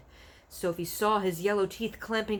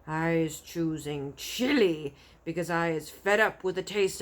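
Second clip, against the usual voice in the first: boasting giant; 6 dB louder than usual. Acted.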